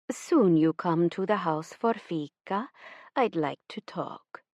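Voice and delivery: slow, lightly voiced Swedish mother; a hint of a gentle insistent mother; mother summoning her daughter for fika, slow and soft.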